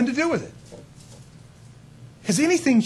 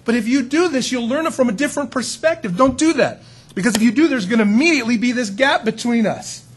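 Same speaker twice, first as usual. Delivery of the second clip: earnest, higher pleading, building louder; pleading God; 5 semitones higher, 4 dB louder than usual. Retold or imitated. God begging Adam and Eve not to separate from him, earnest. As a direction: plead like a worried parent. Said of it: "And God said".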